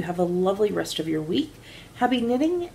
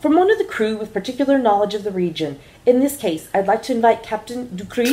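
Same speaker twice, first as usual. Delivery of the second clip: loud, grand cabin announcement to passengers; first officer announcing to the passengers, smooth and grand; airline announcer; 5 semitones higher, 4 dB louder than usual. Acted. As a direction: play the smooth first officer introducing a talk.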